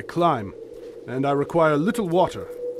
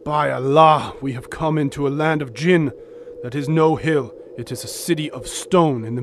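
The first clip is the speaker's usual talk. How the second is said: louder, startled cry of wonder and dread; awestruck alarm; 4 dB louder than usual. Acted. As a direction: blurt it out as the city appears. Ali sees the city.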